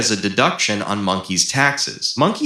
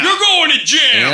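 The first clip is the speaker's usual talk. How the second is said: very high, loud shrill jail threat; cartoon official yelling; 5 dB louder than usual. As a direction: shriek the sentence at the monkey.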